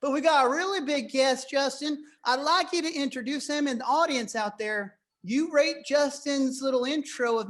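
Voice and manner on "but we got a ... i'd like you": fast put-on cowboy twang; makeshift Texas accent. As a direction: hype the guest like a rodeo host. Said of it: "how long I'm gonna keep doing this accent".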